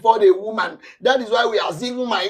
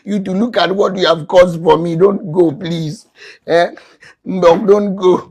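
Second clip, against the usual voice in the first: pleading loudly; 5 dB louder than usual. Acted. Husband begging wife to stay.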